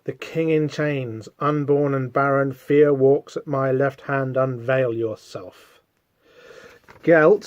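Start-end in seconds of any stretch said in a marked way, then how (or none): 0.0-5.8 slow, measured proclamation; solemn, drawn-out recital; reading out a grand title. Acted. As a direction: announce it slowly, letting the ends sink. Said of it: "what does he call himself?".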